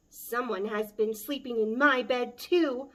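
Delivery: a loud Mama Bear cry. Acted. Mama Bear finds her bed slept in, loud cry. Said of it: "Mama Bear cried".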